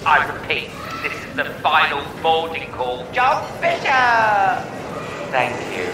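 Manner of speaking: airport tannoy boarding announcement; echoey public address call; flat echoey pa page. Pretend.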